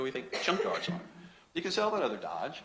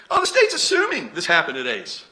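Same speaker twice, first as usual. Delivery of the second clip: mocking defense lawyer; 2 semitones higher, 7 dB louder than usual. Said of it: "Counsel in the opening statement".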